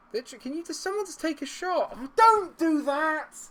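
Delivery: plead, then erupt in a loud high scream; exasperated scream. Real, not acted. Gamer begging his players to shoot, screaming in exasperation.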